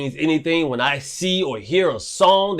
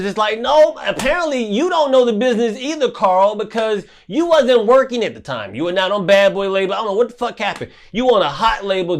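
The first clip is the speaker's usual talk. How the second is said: high, raised ranting comeback; heated rebuttal; 6 semitones higher than usual. Real, not acted. Answering a singer's tweet with a high heated rant. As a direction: fire back at him, pitch climbing.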